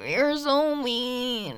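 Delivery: slow, drawn-out sulky whine; pouty. Acted. Girlfriend sulking at her teasing partner, drawn-out whine. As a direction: stretch it out in a mock-hurt pout.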